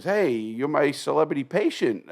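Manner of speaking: lightly voiced doctor. Surgeon greeting his famous patient, lightly imitated hearty hail. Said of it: "he comes in, he goes".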